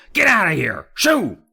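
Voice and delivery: high, loud shoo, rising at the end; shouting. Acted. Neighbor shooing the dog out of his garden, shouted. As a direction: chase the dog off with your voice. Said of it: "he shouted".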